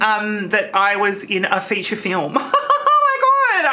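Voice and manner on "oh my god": laughing, high and delighted; gleeful laugh. Acted. Trish gloating to Christian, laughing.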